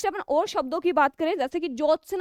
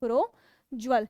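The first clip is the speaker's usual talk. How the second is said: slow spelled-out word; 4 semitones lower, much slower than usual. Shown as a demonstration. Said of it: "शब्द बनेगा आपका प्रोज्वल".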